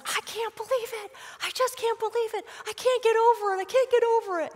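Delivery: high, stunned disbelief; amazed kid. Retold or imitated. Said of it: "he was like".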